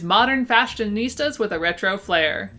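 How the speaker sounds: "fashionistas" with its s sounds slurred toward sh; lisped s in "fashionistas", a slushy sh-like hiss. Real, not acted. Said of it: "my lisp got in there a little".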